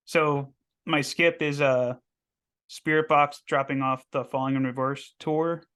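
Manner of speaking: hoarse, worn-out morning voice. Real, not acted. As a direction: talk through a voice that's going. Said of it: "losing my voice this morning".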